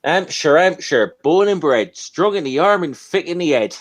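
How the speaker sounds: broad Hampshire chant with a swinging lilt; sing-song Hampshire country accent. Shown as a demonstration. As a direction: recite it in a rural Hampshire twang. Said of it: "that's a bit of an Hampshire".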